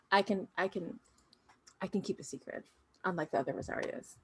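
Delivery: softly voiced clone confiding a secret; hushed, confiding. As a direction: drop the volume to confide, mildly conspiratorial. Clone confides about keeping a secret.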